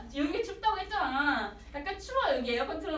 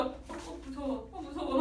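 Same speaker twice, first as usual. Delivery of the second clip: mock scared; 5 dB quieter than usual. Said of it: "막 이렇게 하면서".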